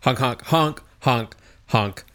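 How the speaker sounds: goose honking. Acted. Translating to goose.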